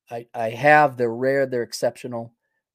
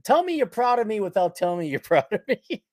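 quoting through laughter; 4 semitones higher than usual. Retold or imitated. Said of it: "he said".

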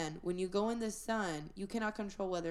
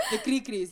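cricket chirp imitation; 3 semitones higher, 7 dB louder than usual.

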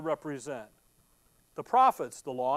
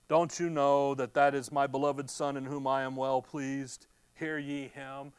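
lower, solemn heavenly voice; the Father speaking down from the cloud, grave; 5 semitones lower than usual. Acted. Heavenly voice rebukes Peter, low and solemn. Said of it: "all of a sudden you hear this".

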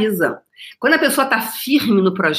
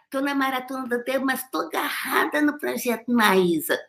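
much softer, far-off mock voice of an excuse-maker; mock viewer excuse; 5 semitones higher, 5 dB quieter than usual. Mocking viewers clinging to sad songs, soft mock voice.

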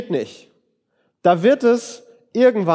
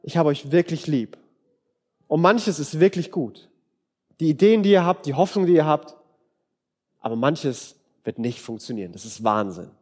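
loving honesty; 4 semitones lower than usual. Pretend. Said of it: "Und das ist zu sagen".

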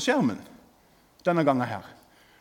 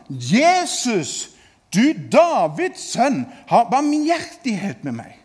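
a held-back cry, raised but not shouted; restrained cry for mercy; 3 dB louder, slower than usual. Retold or imitated. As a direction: call out to Jesus, holding the volume in check. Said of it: "da ropte han". (et behersket rop om nåde)

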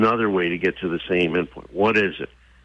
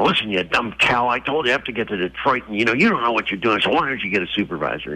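fast, mock-angry rant at the counter clerk; lightly acted bullying, speeding up; stranded man berating the airline clerk, fast and angry; rude angry traveller; 3 semitones higher, faster than usual. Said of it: "it just got escalated".

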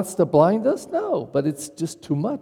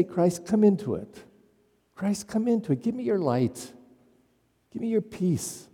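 prayerful appeal; 3 semitones higher, 6 dB quieter than usual. Acted. Acted prayer asking Christ for healing.

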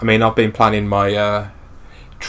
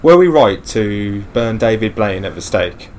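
smooth mock radio announcer; radio host. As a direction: open the show like a late-night DJ.

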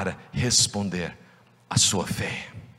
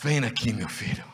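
tender call; 5 dB quieter than usual. Acted.

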